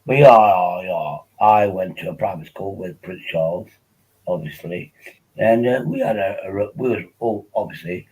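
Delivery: lightly voiced posh public-school type; mock upper-class ramble; a hint of a toff; posh schoolboy. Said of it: "So that's how, uh, Vincent speaks".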